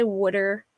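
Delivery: "wooder" for water, Philadelphia style; Philly wooder. Shown as a demonstration. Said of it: "Like, I say".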